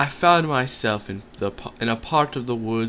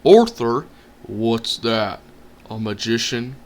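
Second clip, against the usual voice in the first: sheepish troll; 5 dB louder, slower than usual. Acted. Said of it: "the voice replied sheepishly".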